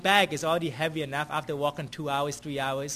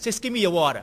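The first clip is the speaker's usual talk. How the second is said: louder imitated demand; mock upset demand; 6 dB louder, faster than usual. Homeless man demanding the water bottle, mock upset. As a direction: snap out his demand, lightly. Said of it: "he got also upset".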